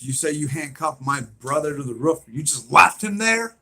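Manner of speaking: outraged question. Retold or imitated. Acting brother's outraged, heated question.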